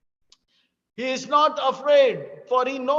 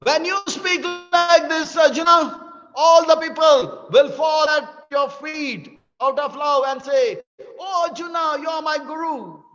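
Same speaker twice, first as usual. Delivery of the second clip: excited; 4 semitones higher, 4 dB louder than usual. Acted. Krishna promises Arjuna glory.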